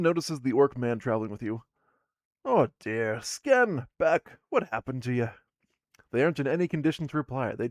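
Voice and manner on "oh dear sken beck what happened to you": loud, pitch jumping up on Sken; a shocked cry at her hurt partners; alarmed dwarf woman. Acted. Dwarf woman seeing her hurt partners, loud alarmed cry.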